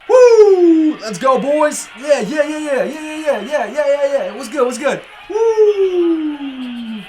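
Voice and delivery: high hype shouting; frat bro. Real, not acted. Hyped up playing football game.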